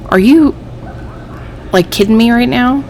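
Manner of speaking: exasperated disbelief at the game; fed-up rising complaint; irritated. Real, not acted. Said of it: "I'm really irritated".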